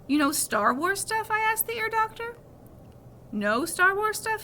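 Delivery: put-on boy thrilled the doctor knows Star Wars; excited.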